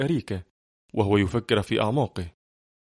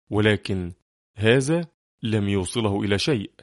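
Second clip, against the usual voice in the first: ordinary delivery, nothing marked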